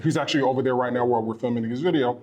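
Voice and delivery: talking around a mint; mouth full. Real, not acted. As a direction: speak with a mint in your mouth. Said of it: "I got this mint in my mouth".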